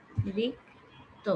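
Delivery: অতিরিক্ত drawn out very slowly, first vowel rounded; slow demo word. Shown as a demonstration. Teacher to class, modelling অতিরিক্ত very slowly. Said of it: "আমরা যখন বলি".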